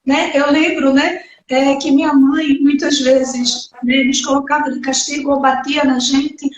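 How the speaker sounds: normal talking voice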